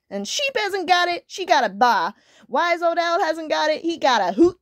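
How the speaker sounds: high, plaintive kitten complaint; put-on high wailing; kitten's wail. A narrator's reading. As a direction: wail it all out like a tiny kitten. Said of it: "wailed little kitten".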